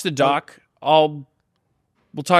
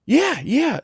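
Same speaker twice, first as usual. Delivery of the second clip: puppet voice; 11 semitones higher than usual. Acted. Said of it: "Can we just talk like adults?".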